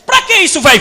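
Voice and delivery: put-on high sulky kid voice; whiny boy. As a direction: protest like a fed-up kid. Boy complaining again.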